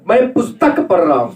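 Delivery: पुस्तक picked out as the focus; stress on पुस्तक. Shown as a demonstration. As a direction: lean on पुस्तक in the example sentence. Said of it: "हमारा जोर होगा".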